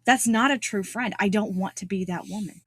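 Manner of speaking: normal talking voice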